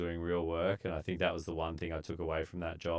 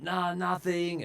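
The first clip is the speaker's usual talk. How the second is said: higher, slow, drawn-out no; slow dismissive nah; 12 semitones higher, slower than usual. Retold or imitated. Answering the mate from the pit, higher and slow. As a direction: stretch it out, deadpan. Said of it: "I'm like".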